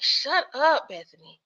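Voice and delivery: exasperated shut up, stretched out; annoyed "shut up". Retold or imitated. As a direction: tell her off, fed up. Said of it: "Where I was like".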